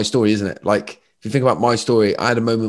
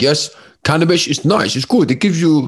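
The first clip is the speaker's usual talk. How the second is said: put-on generic Dutch accent, pitched higher; 6 semitones higher, 4 dB louder than usual. Quoting a Q and A answer about cannabis: Wim Hof impression, generic Dutch accent. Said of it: "my generic Dutch accent".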